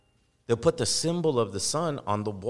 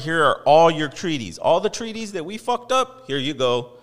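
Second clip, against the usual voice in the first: louder, hammed-up giving back; sincere apology; 3 semitones higher, 6 dB louder than usual. Host acting out returning treaties, loud mock apology. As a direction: hand the treaties back loudly.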